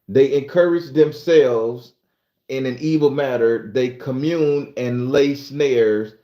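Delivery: slow, measured Bible reading; scripture reading. Acted. Streamer reading Psalm sixty-four to viewers, slow scripture reading. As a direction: read it out phrase by phrase, stretching the words.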